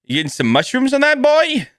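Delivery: chatty, nosy topping questions; lightly voiced chummy busybody; over-friendly pizza-shop regular. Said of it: "I'm like".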